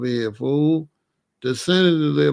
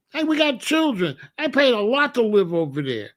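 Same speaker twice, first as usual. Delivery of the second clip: worried rich neighbour; 6 semitones higher than usual. Retold or imitated. Rich man panicking to wife.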